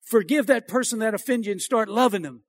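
understated, quiet divine prompting; still small voice. Acted. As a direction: gently imitate a still small voice. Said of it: "comes in a still small voice".

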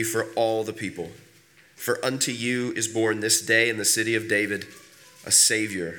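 measured, declarative Bible reading; scripture reading. Acted. Pastor reads the nativity passage to a standing congregation, scripture reading. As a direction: read it out evenly to the congregation, phrase by phrase.

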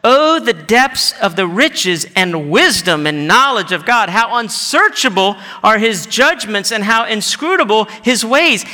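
fervent pulpit doxology, stressed key words; swelling cry of praise; praising. Acted. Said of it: "Paul just praises him".

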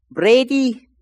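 high, loud call of a Hispanic pastor's voice; imitated Hispanic pastor. Hispanic pastor calling to him at prayer, high imitated voice. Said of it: "it was a Hispanic voice".

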